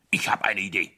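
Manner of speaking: conspiratorial whisper; hushed, secretive. Acted. King's idea, whispered.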